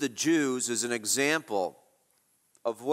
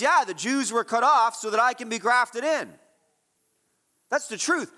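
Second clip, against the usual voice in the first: emphatic preaching; 8 semitones higher, 4 dB louder than usual. Real, not acted. Preacher builds to a point.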